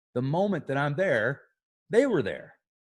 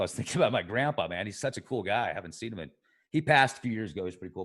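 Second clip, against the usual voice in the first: getting emotional; 3 semitones lower, faster than usual. Real, not acted. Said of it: "I'm getting a little emotional".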